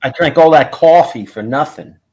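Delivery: New York "coffee" pronunciation. Urged by others to say it right, doing the coffee accent. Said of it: "Do the coffee accent".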